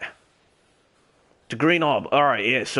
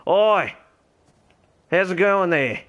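calling out; 6 semitones higher, slower than usual. Real, not acted. Greeting two players.

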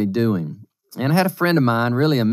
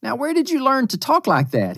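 stern father; 11 semitones higher than usual. Retold or imitated. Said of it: "So I said".

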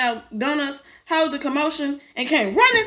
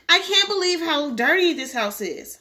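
higher-pitched, slow grumble; complaining; 4 semitones higher than usual. Acted. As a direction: drag out the complaint. Sister complaining in story.

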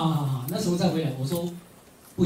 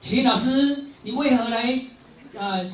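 higher, louder stage question; 5 semitones higher than usual. Pretend. Asking his friend on stage why he joined, loud. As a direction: call the question out to him before the audience. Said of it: "我就大声问他说".

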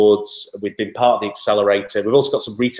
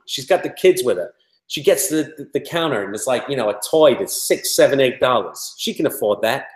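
imitated New York accent, pitched up; 4 semitones higher than usual. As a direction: play a chatty New York salesman explaining. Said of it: "He was from New York".

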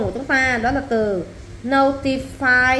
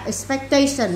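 Expectation stressed on TA, falling after it; Expectation, accent on TA; stress on third syllable. Shown as a demonstration. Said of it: "nhớ năm ba".

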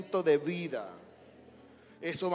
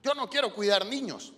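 mock complaining servant, higher and louder; whiny volunteer; 5 semitones higher, 5 dB louder, faster than usual. Preacher mimics a grumbling church volunteer, whiny. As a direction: whine like a volunteer who only wants to preach. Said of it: "Solo a mí me ponen".

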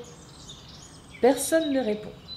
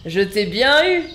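laughing; 6 dB louder than usual. Acted. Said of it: "rigole Léon".

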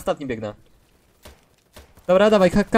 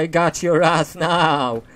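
taunt; 2 semitones lower, 4 dB louder, much slower than usual. Real, not acted. Taunting enemy during firefight.

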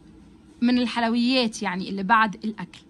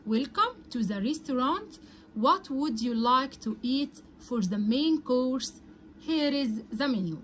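slow model reading; much slower than usual. Shown as a demonstration. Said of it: "reads the full dialogue slowly".

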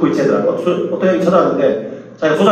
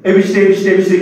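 rapid-fire repeated nonsense syllables in imitation; mock praying in tongues; faster than usual. Imitating a friend at the retreat, mock tongues prayer. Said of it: "어떤 친구는 갑자기 방언 기도해".

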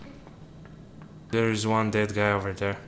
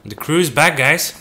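excited; 3 semitones higher, 7 dB louder than usual. Real, not acted. Crew rejoins, cheering.

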